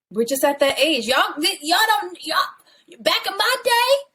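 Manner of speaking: put-on high, scandalized old-school parent; disapproving parent voice. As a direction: channel a shocked mom from back in the day. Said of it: "my mom".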